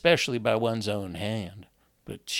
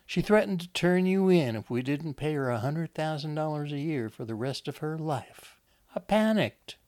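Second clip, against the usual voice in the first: higher-pitched woman making excuses; defensive Wanda; 5 semitones higher than usual. Acted. Wanda excuses the attack to her husband, high and defensive. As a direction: plead your case, pitched up, peaking at the end.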